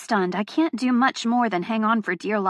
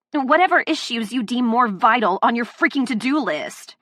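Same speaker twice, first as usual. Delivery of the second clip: angry; 3 semitones higher, 3 dB louder than usual. Acted. Heroine confronting him, furious.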